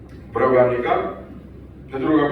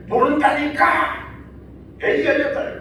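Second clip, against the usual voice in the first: cursing shout; 10 semitones higher than usual. Retold or imitated. Peter swearing at the crowd, hammed-up cursing shout. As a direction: swear at them, voice cracking with a laugh. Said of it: "막 이러면서".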